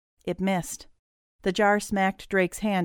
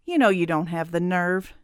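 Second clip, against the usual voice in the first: mildly taunting dare; sneering. Acted. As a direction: goad them with a light sneer. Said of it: "Drake sneered".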